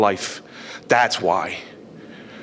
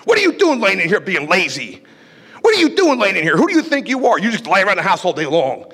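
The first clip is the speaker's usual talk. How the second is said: mock parental yell, pitched up; parents yelling; 2 semitones higher than usual. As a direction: play the scolding parent shouting at a lazy kid. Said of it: "they would come in screaming at me".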